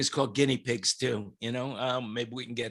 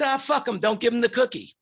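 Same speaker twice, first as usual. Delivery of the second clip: fed-up mother; 7 semitones higher than usual. Retold or imitated. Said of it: "And the mother says".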